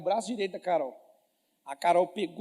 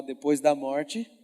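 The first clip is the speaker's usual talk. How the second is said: slower, lower lead line; slow repeat prompt; 4 semitones lower, 3 dB louder, much slower than usual. Shown as a demonstration. Preacher has the congregation say it aloud. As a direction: say it slowly so they follow. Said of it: "Fala assim com a sua boca".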